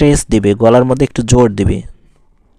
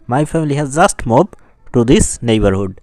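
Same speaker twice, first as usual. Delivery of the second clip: slow example sentence with "just" emphasized; stress on JUST; much slower than usual. Shown as a demonstration. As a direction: give "just" extra weight. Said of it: "এখানে জোর দেওয়া হয়েছে". ("just" শব্দে জোর)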